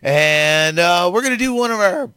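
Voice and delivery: loud boozy host intro; drunk host voice. Pretend. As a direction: play a tipsy show host. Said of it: "this is Drunken Larry".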